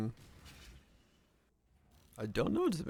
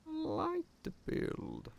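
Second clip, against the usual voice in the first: much higher, soft and slow; high soft whine; 14 semitones higher, 9 dB quieter, slower than usual. Pretend. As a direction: coo it in a high little voice. Repeats in a different voice.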